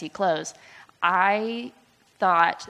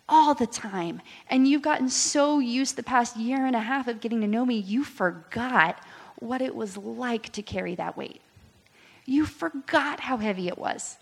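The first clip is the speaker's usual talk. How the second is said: a little higher and gentler; tender voice of God; 4 semitones higher than usual. Retold or imitated. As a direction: speak as a loving father would. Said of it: "He's like".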